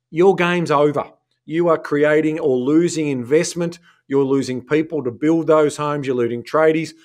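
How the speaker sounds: lecturing the politicians, fired up; talking to politician voice. Real, not acted. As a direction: speak straight to the government. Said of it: "you had your talking to politician voice on at the end there".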